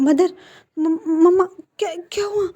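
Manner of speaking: high, breaking cry of alarm; a son's sudden terror, voice cracking; panicked crying. A narrator's reading. Wing finding his mother collapsed, panicked cry.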